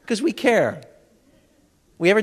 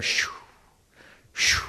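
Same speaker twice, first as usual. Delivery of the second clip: ocean shush; 5 dB quieter than usual. Shown as a demonstration. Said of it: "they hear".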